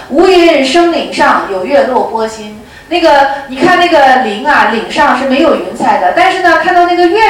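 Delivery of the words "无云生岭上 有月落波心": slow, measured verse recital; a monk calmly reciting his verse. Retold or imitated. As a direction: recite it slowly like scripture. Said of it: "我是这么诵的".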